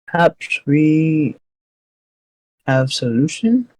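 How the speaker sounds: slow, simple-minded orc. Acted. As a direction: talk like a dim orc, biting your tongue. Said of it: "now she's, like, an orc voice".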